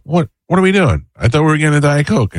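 high-pitched mock exasperation; exasperated quote. Husband asks where his Diet Coke is, retold exasperation.

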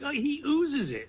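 rising, slow disgust; oozing with disdain; disgusted emphasis. Real, not acted.

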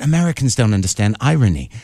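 lightly mimicking a Scottish accent; a hint of Scottish accent in the jab; mock Scottish accent. Comic quoting Scots to the host, a light Scottish accent. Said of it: "in this accent".

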